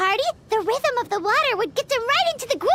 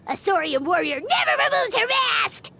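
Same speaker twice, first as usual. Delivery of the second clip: shouted catchphrase. Pretend. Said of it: "Get this!".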